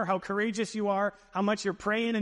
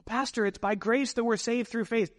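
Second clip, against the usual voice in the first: higher-pitched voice of a protesting congregant; raised-pitch mock objection to the pastor; objecting churchgoer; 5 semitones higher than usual. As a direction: lightly voice a churchgoer raising an objection.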